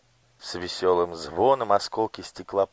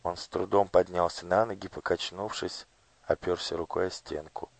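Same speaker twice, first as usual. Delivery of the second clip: plain reading voice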